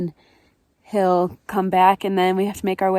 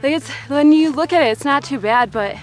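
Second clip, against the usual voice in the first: breathless at high altitude; 3 semitones higher than usual. Real, not acted. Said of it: "Definitely feeling the elevation".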